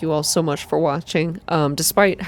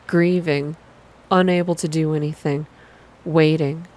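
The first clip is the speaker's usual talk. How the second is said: even, unhurried visual novel reading; calm, slow narration. A narrator's reading. Streamer reading a visual novel aloud, calm and slow. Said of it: "calm, slow".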